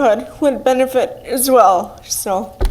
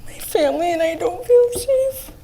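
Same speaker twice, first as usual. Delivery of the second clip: nervous, voice higher and unsteady; fighting back nerves at the mic; stage fright; 5 semitones higher, 4 dB quieter than usual. Real, not acted. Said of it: "Take a breath and take a moment to compose yourself".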